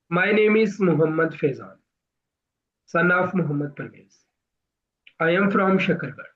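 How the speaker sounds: slow, with a pause between sentences; slow, paused delivery. Shown as a demonstration. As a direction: say each word fully, then pause. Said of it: "कुछ pause होता है।". (धीमे-धीमे, रुक-रुक कर बोलना)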